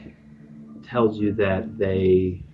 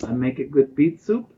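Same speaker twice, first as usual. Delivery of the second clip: lightly voiced old lady, higher pitched; old village lady; 5 semitones higher than usual. Old lady pleading her worth to travellers, lightly higher voice. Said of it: "this old lady seems to have".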